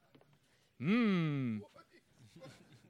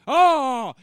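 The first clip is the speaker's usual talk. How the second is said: angry shout; 3 semitones higher, 9 dB louder than usual. Acted. Angry outburst at student leader.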